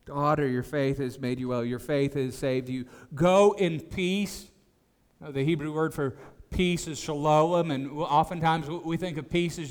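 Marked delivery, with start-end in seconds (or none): 0.0-4.5 tender reading. Acted. Preacher re-reading Jesus' blessing to the healed woman, tender.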